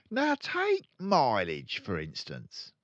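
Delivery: high, slow lecturing dealer; boastful father. Acted. Father lecturing his son, slow boastful. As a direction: hold forth like an expert. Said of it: "he went on".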